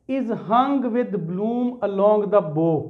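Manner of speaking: very slow, deliberate reading of the line; slow classroom recitation of the poem line. Shown as a demonstration. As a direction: read the line out word by word. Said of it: "ये उसी में से आप देखेंगे".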